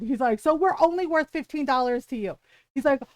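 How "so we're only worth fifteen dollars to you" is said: mild mock yell; toned-down imitation of an angry customer. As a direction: retell an indignant yell at half strength. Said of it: "that's when Ron yelled".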